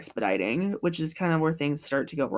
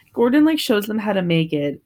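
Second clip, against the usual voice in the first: ordinary talk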